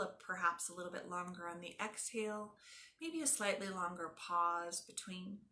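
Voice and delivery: calm, measured yoga nidra voice with long pauses; guided meditation. Acted. Teacher guiding a class through yoga nidra, calm guided meditation. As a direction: ease them into stillness, letting phrase endings soften.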